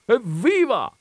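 high, loud hurrah; shouted cheer. A narrator's reading. Coachman cheering as he staggers off, shouting. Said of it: "gridava il cocchiere".

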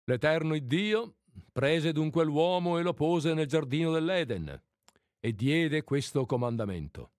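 solemn, measured Bible reading; reading scripture aloud. A narrator's reading. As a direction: read the verses like a priest at the altar. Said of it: "e lesse".

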